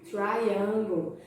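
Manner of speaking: "Triangle" said carefully with a curled R; highlighted English R. Shown as a demonstration. Teacher showing pupils the shape word, curled R. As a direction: model "Triangle" as tr-eye-angle, English R. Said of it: "Olha o R".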